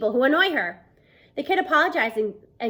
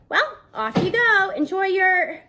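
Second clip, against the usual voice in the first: trailing off; 7 semitones higher, 4 dB louder, slower than usual. Acted. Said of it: "his voice trails off".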